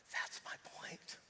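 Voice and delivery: whispered, slow. Acted. Preacher after shouting, whispering the point. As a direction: drop to a hush for the point.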